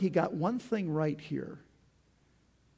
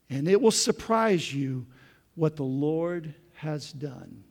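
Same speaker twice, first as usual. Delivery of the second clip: recited hymn; 3 semitones higher, 6 dB louder, slower than usual. Shown as a demonstration. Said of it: "it said this".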